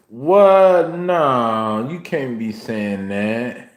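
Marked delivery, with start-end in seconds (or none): 0.1-0.9 sharp, high startled what; shocked what. Real, not acted. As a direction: jolt up in disbelief. Shocked by what she hears.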